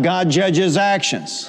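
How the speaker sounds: slow, every word weighed; slow emphatic statement. Shown as a demonstration. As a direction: lay it down slowly for the church to repeat. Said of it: "Say it out loud".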